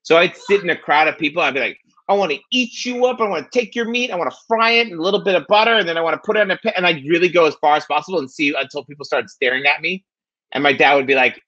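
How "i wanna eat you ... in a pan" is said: higher-pitched, lightly hammed-up cooing threat; playful mock menace. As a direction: push the doting eat-you-up joke too far, higher. Acting out taking baby talk too far.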